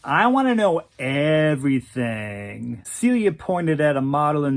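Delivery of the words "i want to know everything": nasally drawl. Acted. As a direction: drawl the request lazily, slow. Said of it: "in that nasally drawl".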